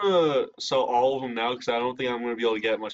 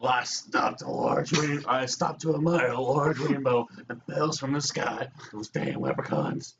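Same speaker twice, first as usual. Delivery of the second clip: put-on slow, gruff old codger voice; angry old man voice; slower than usual. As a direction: play a cranky old man, drawn out. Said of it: "I wonder if I could do a voice".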